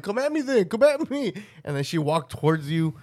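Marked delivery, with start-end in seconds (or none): 0.0-1.3 higher, taunting dare; higher mock taunt; mock challenge. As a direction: taunt them to come at you. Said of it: "I'm like".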